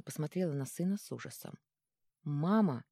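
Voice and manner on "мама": plain reading voice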